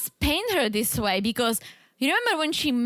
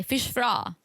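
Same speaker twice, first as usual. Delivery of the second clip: Arkansas drawl on "fish fry"; arkansas accent. Shown as a demonstration. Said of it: "I'm doing the Arkansas accent".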